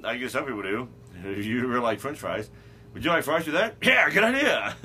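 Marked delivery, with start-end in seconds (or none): 2.9-3.8 upselling cashier. Retold or imitated. 3.8-4.8 bright keen agreement; eager yes. Retold or imitated. Eager customer reply.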